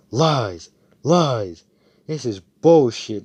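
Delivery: loud mock accusation; acted outraged disbelief; retold disbelief. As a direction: call it out loudly, word by word. Retold angry disbelief at a boast.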